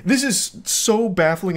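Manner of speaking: slow, high, voice cracking in disbelief; real crack on the pitch. Real, not acted. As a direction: let the voice crack from sheer bafflement. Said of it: "it's making my voice crack".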